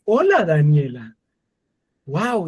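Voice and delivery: a lightly voiced wife, slow greeting; imitating his wife. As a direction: slowly greet the car as your wife would. (imitando a la esposa, saludo lento)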